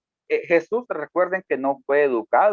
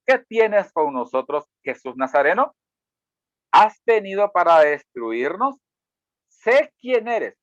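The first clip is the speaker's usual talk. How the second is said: demon crying out; 2 semitones higher than usual. Acted. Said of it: "que dio voces".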